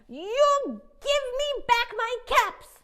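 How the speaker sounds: high, loud, slow demand; peddler demanding. A narrator's reading. Peddler scolds monkeys up the tree, loud and slow. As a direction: demand the caps back, slowly. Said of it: "shook their fingers back".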